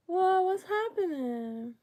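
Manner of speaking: high startled "whoa"; surprised. Real, not acted. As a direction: caught off guard by a glitch. Something odd happens on stream.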